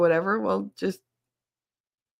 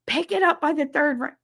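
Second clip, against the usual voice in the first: imitated household order; 9 semitones higher than usual. Imitates household order about phone.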